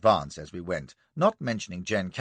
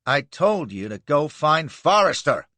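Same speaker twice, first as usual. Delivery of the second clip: barking; 4 semitones higher, 5 dB louder than usual. Acted. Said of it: "barks Ward".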